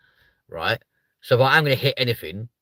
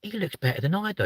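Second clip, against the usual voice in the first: mock woman driver; 10 semitones higher, 4 dB quieter than usual. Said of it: "look at you and go".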